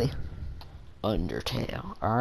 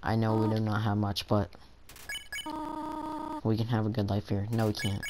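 lightly voiced gentle mother; 6 dB quieter than usual. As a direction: plead gently like a worried mother. Reads mother character's lines.

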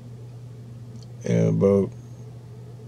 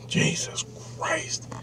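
breathy whispered disbelief; stunned hushed Jesus Christ; awed whisper; 12 dB quieter, much slower than usual. Real, not acted. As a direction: whisper it like you can't believe it. Awed reaction to the near-death story.

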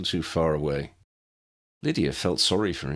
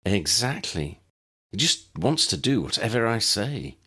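exasperated plea; 4 semitones higher than usual. A narrator's reading. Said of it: "Tessa's voice was an exasperated plea".

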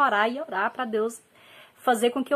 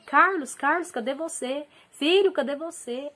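higher-pitched mock yell, not full volume; retold calling out; 5 semitones higher than usual. Mother calling her missing son Carlos, half-strength retold shout. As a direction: call out for a missing child, held back.

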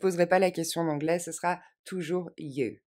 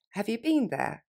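faster; 4 semitones higher than usual. Shown as a demonstration. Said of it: "Et plus rapidement".

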